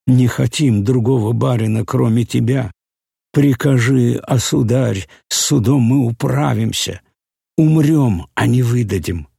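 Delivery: громкие, высокие отчаянные выкрики; кричат, умоляя барина; крик толпы. A narrator's reading. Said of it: "кричали они". (толпа кричит)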